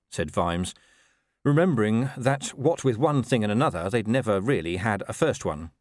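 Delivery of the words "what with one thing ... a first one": ordinary delivery, nothing marked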